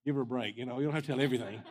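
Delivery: quick, breaking into laughter; joking protest. Retold or imitated. Joking reaction to the blunt prophet.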